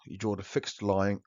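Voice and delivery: speaking with loose dentures; words slurred by slipping false teeth. Real, not acted. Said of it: "Sorry, put my teeth back in".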